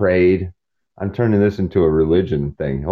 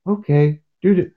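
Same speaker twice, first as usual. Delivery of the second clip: sarcastic okay dude; 11 semitones higher than usual. Retold or imitated. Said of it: "imitating reply".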